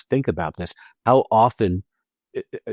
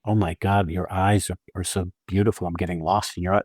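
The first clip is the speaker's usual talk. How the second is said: mock seductive compliment; 4 semitones lower than usual. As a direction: sweet-talk them, half in jest. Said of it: "do it".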